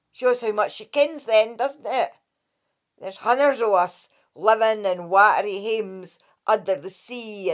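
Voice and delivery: the Dracai scolding Kate for her rudeness; huffy water fairy. Acted. Lightly voiced indignant sprite.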